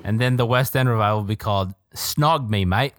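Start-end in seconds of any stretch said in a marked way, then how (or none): 1.9-2.9 a hint of Australian, hammed lightly; lightly put-on Australian twang; faint Australian accent. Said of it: "that was a little Australian".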